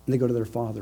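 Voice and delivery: ordinary talk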